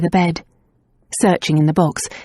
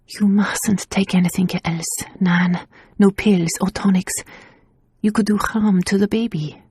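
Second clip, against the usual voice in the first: earnest whisper; 2 semitones higher than usual. Acted. Tasia whispers warning.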